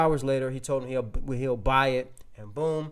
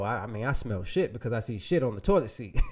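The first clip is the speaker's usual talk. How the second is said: chuckling through the words; amused, laughing retort; 4 semitones lower than usual. Retold or imitated.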